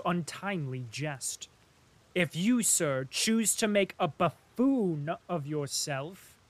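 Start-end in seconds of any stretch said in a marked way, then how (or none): 2.1-6.4 sharp. Acted. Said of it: "he said sharply".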